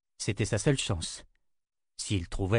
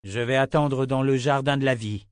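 wizard announcing; 3 semitones higher, 4 dB louder than usual. Acted. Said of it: "annonça le sorcier".

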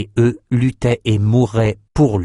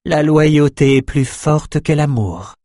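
slow, higher-pitched woman's voice; dutiful empress; 6 semitones higher, slower than usual. Acted. Dead empress renouncing her lover for loyalty, dutiful empress. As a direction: recite the creed slowly and higher.

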